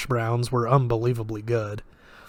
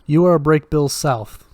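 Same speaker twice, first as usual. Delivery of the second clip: put-on flat, slightly Russian-accented delivery; the man speaks Russian-accented English, not looking at Quentin; 3 semitones higher, 7 dB louder than usual. A narrator's reading. Man greeting Quentin at breakfast, slight Russian accent. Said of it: "with a slight Russian accent".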